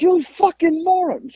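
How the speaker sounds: high, drawn-out mock outrage; slow, high-pitched insult as a furious father; imitated angry dad. Father calling his son on break, high mock fury. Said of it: "he was so mad at me".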